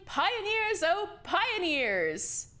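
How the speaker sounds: high, drawn-out climax of the poem; rousing refrain. Acted. Leader ending his poem for the youth, grand stretched climax. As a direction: swell the last line up like a rallying cry.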